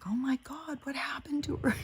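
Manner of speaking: high breathy whispered gasp, hammed-up; mock shocked whisper. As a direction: whisper it like a gossip feigning shock. Mocking shocked press people.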